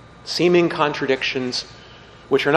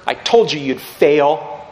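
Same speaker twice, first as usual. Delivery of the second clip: louder, slow told-you-so taunt; mock gloating; 5 dB louder than usual. Imagined Jesus gloating over Peter's failure, mock told-you-so. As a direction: gloat over him like a smug judge. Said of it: "Did he say to him".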